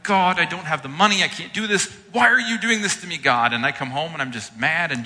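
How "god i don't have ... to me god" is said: rising, louder plea of exasperation; mock-angry prayer; frustrated complaint. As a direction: vent at God, mildly hammed-up. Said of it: "and I'm like".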